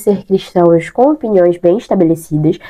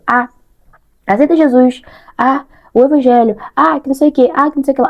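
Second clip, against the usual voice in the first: higher, nagging pushy tone; pushy preaching; 5 semitones higher than usual. Retold or imitated. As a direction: badger them about Jesus. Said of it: "ficar importunando e falando".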